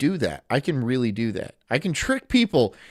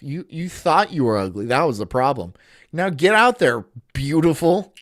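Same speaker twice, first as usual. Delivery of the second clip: sarcastic. Pretend. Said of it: "super sarcastic self-help guru".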